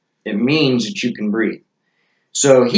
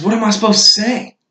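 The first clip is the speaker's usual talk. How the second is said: higher-pitched, baffled question; puzzled retold question; 10 semitones higher, 3 dB louder than usual. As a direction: ask it high, imitating a clueless helper. Retelling Talon's puzzled question.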